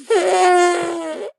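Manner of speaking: a high, loud, squealing trumpet laugh; elephant impression. Streamer fakes an elephant noise for chat, laughing trumpet squeal. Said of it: "my impression of an elephant".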